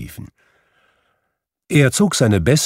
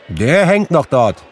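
put-on higher, louder boy's voice; young boy; 8 semitones higher, 6 dB louder than usual. A narrator's reading. Boy reports to Scrooge on the turkey, high and loud. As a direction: answer up like a lad. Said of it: "antwortete der Junge".

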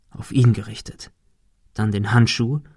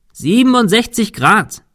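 high, loud call of the number; 10 semitones higher, 5 dB louder than usual. A narrator's reading. Thomas calls the angle up to Cecil, high loud shout. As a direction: shout the angle across the rain.

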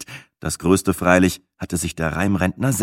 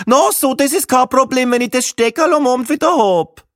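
much higher, louder Viennese voice; Viennese woman; 6 dB louder than usual. A narrator's reading. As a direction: grant it grudgingly, Viennese style. Gruberin replying, Viennese voice. (Wienerin sagt großzügig zu, laut und hoch)

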